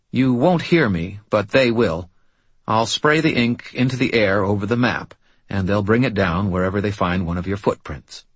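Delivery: the medium, focused and tense; tense medium's voice. Acted. Mort explains the ritual.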